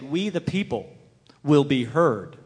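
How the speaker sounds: loud, ringing "will be heard"; forceful declaration. Real, not acted. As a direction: declare it to the crowd. Rousing declaration in speech.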